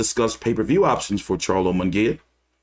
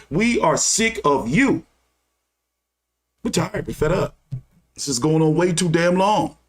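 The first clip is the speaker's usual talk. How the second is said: higher-pitched, heated fan rant at the promoters; fed-up rant; 5 semitones higher than usual. Real, not acted. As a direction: vent your frustration at the whole boxing business. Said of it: "And I'm getting untethered".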